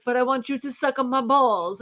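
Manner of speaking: imitating a hammy Italian accent; terrible Italian accent. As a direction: coax in a bad Italian accent. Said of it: "he does the terrible Italian accent".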